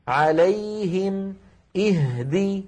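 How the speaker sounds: chanted "عليهم" and "اهدي" with equally held ya and ha; equal lengths. Shown as a demonstration. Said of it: "نفس الطول". («عليهم، اهدي» بزمن واحد)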